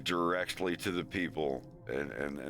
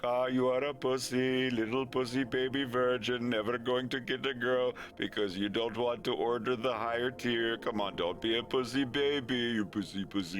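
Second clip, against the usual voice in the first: mocking tech guy; 4 semitones higher than usual. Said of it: "the tech guy was like".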